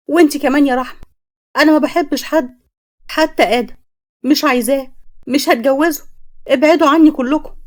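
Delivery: pushing everyone away, hammed-up rage; angry daughter. Daughter shouts at her mother and father to leave her alone, acted anger.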